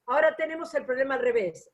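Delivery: fast, brisk recap read-through; quick reading. Real, not acted. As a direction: read it quickly, it has been said already. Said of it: "lo leo rápido porque es lo que dije".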